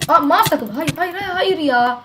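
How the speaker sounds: sudden high cry of dismay, repeated no; panicking as the mouse freezes; shocked dismay. Real, not acted. Gamer cries out when his mouse freezes mid-fight, high and panicked.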